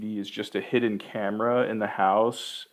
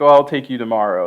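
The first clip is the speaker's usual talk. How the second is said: breezy dad promise; 11 dB louder, faster than usual. Retold or imitated. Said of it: "he's like".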